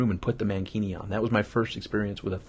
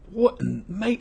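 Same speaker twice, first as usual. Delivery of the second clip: a hint of a put-on Australian accent, jumping much higher on mate; lightly mimicking an Australian friend; 10 semitones higher, slower than usual. Glenn, startled, in a lightly done Australian accent. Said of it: "He's from Australia".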